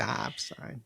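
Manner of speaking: hushed mock Midwest accent on STOP; quiet, teasing imitation of her Midwestern accent; mimicked Midwestern accent. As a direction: softly echo STOP with an Upper Midwest vowel. Listener mimics her mocked accent.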